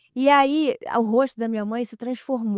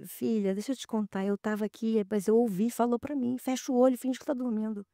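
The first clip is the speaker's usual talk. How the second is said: softer, hushed retelling of mother; hushed mother confiding; 5 dB quieter than usual. Retold or imitated. Mother telling daughter what she heard, softly hushed.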